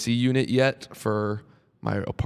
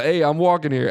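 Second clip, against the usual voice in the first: mock New York accent; 5 semitones higher than usual. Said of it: "you did the "I'm walking here" voice".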